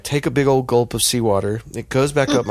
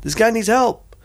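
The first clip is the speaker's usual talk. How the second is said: retold yell; 11 semitones higher, slower than usual. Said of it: "They yelled it".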